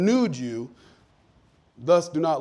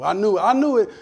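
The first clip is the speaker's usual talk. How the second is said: mock panic; 3 semitones higher, 5 dB louder than usual. Panicked staff in trouble.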